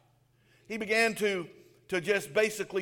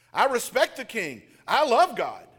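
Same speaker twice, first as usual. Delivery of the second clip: louder, higher desperate pleading; pleading protest; 4 semitones higher, 6 dB louder than usual. Retold or imitated. Naboth pleading innocence to accusers, loud and higher. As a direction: cry out your innocence against them.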